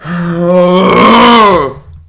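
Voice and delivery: long, loud groan of frustration; loud, drawn-out exasperated sigh. Real, not acted. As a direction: let out a big angry groan. Fan venting over lottery loss.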